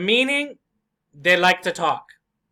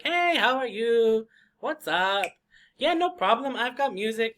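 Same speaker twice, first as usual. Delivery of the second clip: higher, friendly coworker greeting; cheerful coworker; 4 semitones higher than usual. Acted. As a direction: greet them like an upbeat colleague. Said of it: "maybe my coworker is cheerful".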